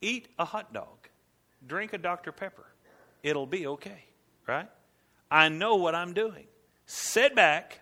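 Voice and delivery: easygoing, a touch of a shrug; casual modern God. Pretend. God telling Rory to relax today, lightly laid-back. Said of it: "That's how he would say it today".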